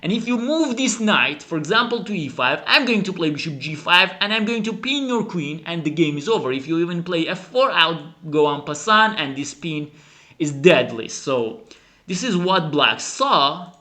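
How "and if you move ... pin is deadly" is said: cocky opponent. Retold or imitated. Commentator voicing black's smug plan against Judit. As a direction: gloat like you've seen it all. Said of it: "But black says".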